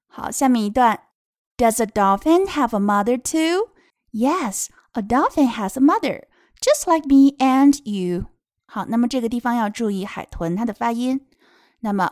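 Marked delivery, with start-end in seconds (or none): 1.6-8.3 put-on lilting, drawn-out reading to children; picture-book reading. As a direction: read each phrase clearly for little listeners. (给孩子读绘本)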